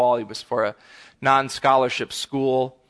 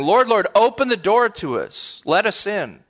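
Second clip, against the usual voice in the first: pleading call; 5 semitones higher than usual. Retold or imitated. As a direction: call out to be let in. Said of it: "they say".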